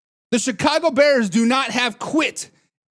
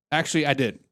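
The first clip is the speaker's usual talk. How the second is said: ordinary delivery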